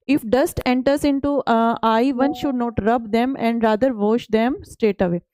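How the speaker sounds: slow, deliberate reading of the English slide. Acted. Teacher reads the textbook slide to students, slow and careful. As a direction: read each word out for the class.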